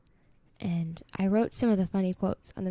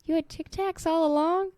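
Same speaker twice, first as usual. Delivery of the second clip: higher, outraged question; indignant disbelief; 8 semitones higher than usual. Retold or imitated. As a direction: accuse him of hoarding candy. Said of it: "He goes".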